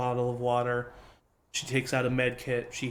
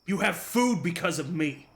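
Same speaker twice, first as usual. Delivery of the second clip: angry retort; 3 semitones higher than usual. Acted. Old farmer snapping back at the young player character. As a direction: put the brat in his place.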